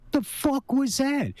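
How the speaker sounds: high, drawn-out freaked-out question; alarmed disbelief. Retold or imitated. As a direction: ask it like you can't believe your eyes. Retelling shock at the creature.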